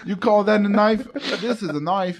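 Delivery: hammed-up amateur Australian accent. Shown as a demonstration. Showing co-hosts an Australian accent for a knife movie line, Australian accent. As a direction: put on a playful Australian twang. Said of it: "You gotta do an Australian accent?".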